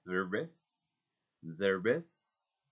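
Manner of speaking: "service" drawn out slowly with a buzzing z; slow teacher's model of "service" with voiced z; exaggerated Z demo. Shown as a demonstration. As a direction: stretch "service" to show the tongue vibrating. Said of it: "vibrate our tongue to express the Z".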